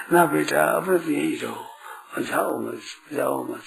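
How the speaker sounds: low, soft coaxing to a son; mother's gentle plea. Acted. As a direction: quietly plead like a clinging mother. Voices a mother keeping her son.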